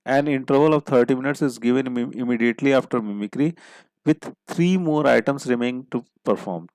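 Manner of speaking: reads the puzzle clue word by word, very slowly; slow dictation reading. Shown as a demonstration. Teacher reading the clue aloud to the class, slow and deliberate. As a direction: dictate it slowly so students can write.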